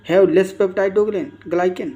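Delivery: slow, drawn-out reading of an exam option; reading a quiz option. Acted. Teacher reads the quiz option aloud to students, very slowly. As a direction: read it out word by word for the class.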